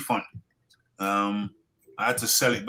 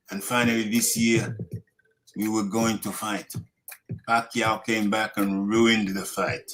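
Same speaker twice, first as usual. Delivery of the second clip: put-on Ugas accent; 2 semitones lower than usual. Reading a fighter's tribute to Spence, muddled accent. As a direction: read it out in a wobbly put-on Spanish-style accent. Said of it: "I thought I was doing Manny, then I thought I was doing Ugas".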